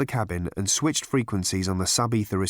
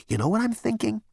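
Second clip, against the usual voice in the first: much higher conspiratorial question; Zaphod scheming; 11 semitones higher than usual. Acted.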